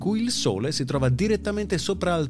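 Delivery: formal newsreader delivery over music; news read. Acted. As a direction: read it like a radio news bulletin.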